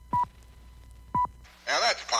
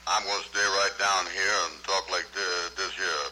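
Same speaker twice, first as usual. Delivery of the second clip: much lower, put-on dialect character voice; 8 semitones lower than usual. Partner asks for dialect, so he tries a low dialect character. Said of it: "see if you can put a little dialect in it".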